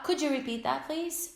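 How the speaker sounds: please lifted high; courteous classroom request; polite model. Shown as a demonstration. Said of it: "pra ser educado".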